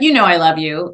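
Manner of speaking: "You know, I love you" tossed off in passing; offhand tacked-on love you. Retold or imitated. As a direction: throw the "I love you" away as an aside. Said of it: "as she's saying something negative".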